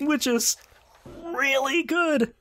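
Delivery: laughing delight. Real, not acted. Delighted at clan name.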